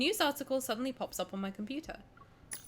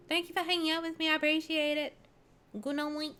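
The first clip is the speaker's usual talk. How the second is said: higher, fast cutesy thanks; 5 semitones higher than usual. Shown as a demonstration. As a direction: chirp it sweetly. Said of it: "goodbye said again differently".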